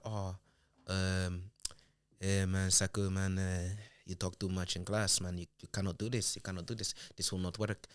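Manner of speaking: imitated Spanish-accented teacher. Spanish teacher telling a pupil off in class, in a put-on Spanish accent. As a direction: put on a Spanish accent, hesitant and low-key. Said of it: "Is this your Spanish accent".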